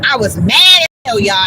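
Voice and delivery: mad as hell, shouted loud; angry shout. Real, not acted. Telling viewers about the fight, real angry shout. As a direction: let the anger burst out loud. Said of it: "you can hear it".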